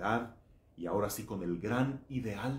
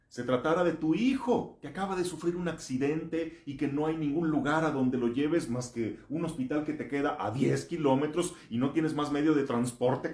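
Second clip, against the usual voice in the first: loud, high, urgent preaching; booming motivational speech; 6 semitones higher, 6 dB louder than usual. Acted. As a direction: drive the question home hard. Builds scenario with rising force.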